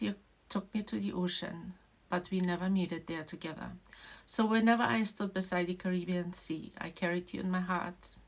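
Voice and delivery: reading the dedication. Real, not acted. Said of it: "I made my whole family cry and myself with this, reading it".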